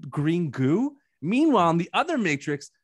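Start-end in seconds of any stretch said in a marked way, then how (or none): 0.1-1.0 high-pitched, incredulous complaint; exasperated. Retold or imitated. Viewer scolding the filmmakers over wasted sequences, exasperated. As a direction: protest in disbelief, speeding up. Acted exasperated reaction to the film.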